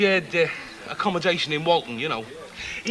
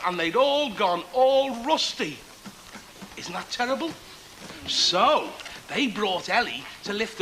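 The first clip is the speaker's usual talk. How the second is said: put-on storytelling to children. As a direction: draw the children in, stretching key words.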